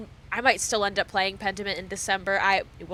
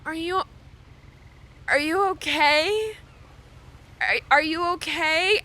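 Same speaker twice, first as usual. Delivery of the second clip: earnest concern; 5 semitones higher than usual. Retold or imitated. Pat asking her crying friend, earnestly concerned. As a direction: gently check she is alright. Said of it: "very earnestly was like".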